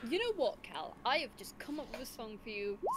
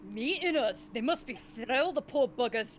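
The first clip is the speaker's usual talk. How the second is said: sarcastic; 3 semitones higher, 11 dB louder than usual. Real, not acted. Sarcastic pity for the NPC.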